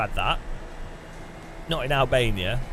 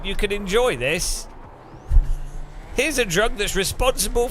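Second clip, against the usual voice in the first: mock French parent; 8 semitones higher than usual. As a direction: lecture the kids in a hammed-up French voice. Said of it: "France are like".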